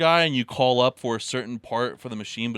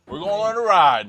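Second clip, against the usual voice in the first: hyped fake announcement; playful thrill-ride hype; mock excited; 6 semitones higher, 7 dB louder than usual. Mock announcement before video.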